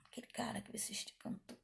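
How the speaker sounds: a quick whispered aside to the audience. Real, not acted. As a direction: lean in and whisper it.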